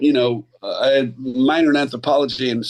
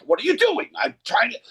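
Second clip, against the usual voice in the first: Mindy Sterling impression; 10 semitones higher than usual. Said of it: "Mindy looked at her character".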